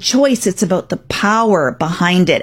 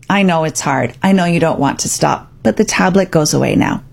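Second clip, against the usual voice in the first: calm and firm; 4 semitones lower than usual. Shown as a demonstration. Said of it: "you could calmly say".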